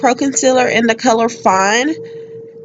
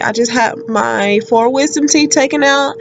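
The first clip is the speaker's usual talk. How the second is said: swollen mouth. Real, not acted. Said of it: "my mouth is still swollen and sore".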